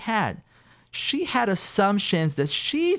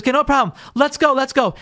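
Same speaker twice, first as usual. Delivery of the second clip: eager hurry; 6 semitones higher, 4 dB louder than usual. Acted. Husband rushing to fix it.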